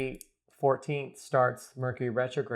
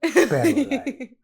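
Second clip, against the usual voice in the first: put-on Latino accent; 12 semitones higher, 8 dB louder, slower than usual.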